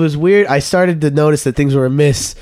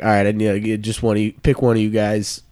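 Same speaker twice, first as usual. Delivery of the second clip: lowered camp leader voice; 5 semitones lower, 4 dB quieter than usual. Retold or imitated. Camp leader Gerald gives instruction.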